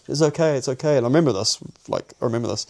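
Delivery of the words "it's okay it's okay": soothing woman. Retold or imitated. Woman soothing him while drugged.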